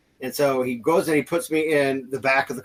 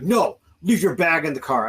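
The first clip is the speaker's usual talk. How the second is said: a firm order, somewhat raised; retold firm order; 3 semitones higher, 3 dB louder than usual. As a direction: imitate an officer's firm command. Retold officer giving orders in standoff.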